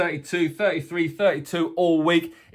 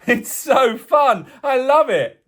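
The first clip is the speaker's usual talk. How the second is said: sarcastic; 7 semitones higher, 5 dB louder, slower than usual. Pretend. Sarcasm about airplane aisle seat.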